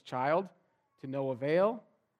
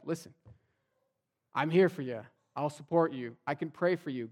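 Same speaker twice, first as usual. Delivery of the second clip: fervent encouragement; 2 semitones higher, 6 dB louder than usual. Acted. Encouraging a friend in crisis.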